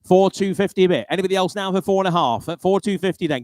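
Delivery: auctioneer. Acted. Calling bids at a car auction.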